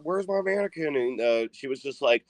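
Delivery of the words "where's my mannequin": high-pitched imitation of an outraged grandson; mock freak-out. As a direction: act out flipping out, without shouting. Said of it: "flips the fuck out on his grandma".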